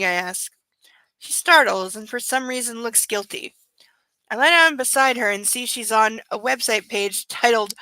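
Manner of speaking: unvoiced whisper, reading the book. Reading the novel aloud in a hushed whisper. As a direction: breathe the words with no voice.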